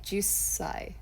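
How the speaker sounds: jusai said softly, falling; careful repeat. Shown as a demonstration. Teacher admitting the word is hard, trying it again. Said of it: "kind of hard to say".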